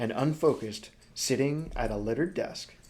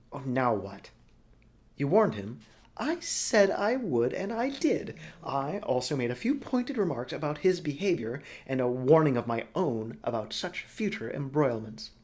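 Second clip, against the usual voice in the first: Broly character voice; 3 semitones higher, 3 dB louder than usual. Acted. Broly gushes to Helva about Niall, high and loud. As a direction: gush over the man as a theatrical old schemer.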